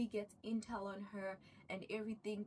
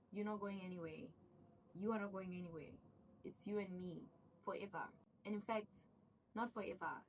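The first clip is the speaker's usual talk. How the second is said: soft threatening warning; 3 semitones lower, 5 dB quieter, faster than usual. Retold or imitated. Sarah's warning to her husband.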